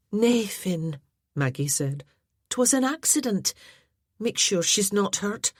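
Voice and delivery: a gentle Scottish lass calming things down; Maggie voice. A narrator's reading.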